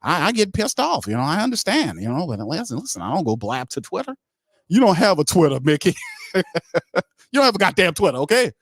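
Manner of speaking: hammed-up outrage at Mickey; mock indignant rant.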